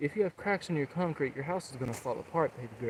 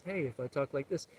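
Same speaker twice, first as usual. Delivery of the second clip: softer voice demo; 7 dB quieter than usual. Shown as a demonstration. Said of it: "the way we can alter our voice".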